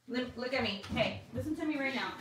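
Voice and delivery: hushed, stern mom threat; quiet warning. Real, not acted. Mother warning son quietly.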